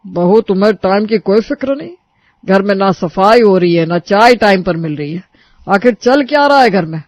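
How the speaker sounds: loud scolding elder; father-in-law scolding bride about the house; angry father-in-law. Acted. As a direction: lay into her. Kailash scolds.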